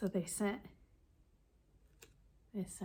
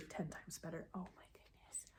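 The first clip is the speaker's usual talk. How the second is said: soft whispered amazement, much softer; whispered delight; 13 dB quieter than usual. Real, not acted. Telling viewers the gift made her day, whispered delight. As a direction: let the joy slip out as a whisper.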